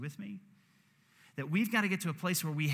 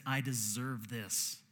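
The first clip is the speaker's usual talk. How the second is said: guilty confession; 3 semitones lower, slower than usual. Retold or imitated. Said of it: "so guilt says".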